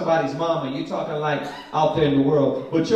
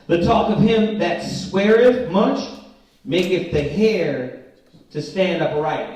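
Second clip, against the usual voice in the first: slow, louder proclamation of the verse; solemn scripture reading; 4 dB louder, slower than usual. Acted. Teacher reads the Proverbs verse to the class, slow and solemn. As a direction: read it out like holy writ.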